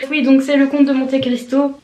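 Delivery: light Québécois lilt on the title; a passing touch of a Québécois accent. Retold or imitated. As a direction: slip into a hint of Quebec French, as the booktuber does. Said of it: "je l'ai dit avec l'accent de".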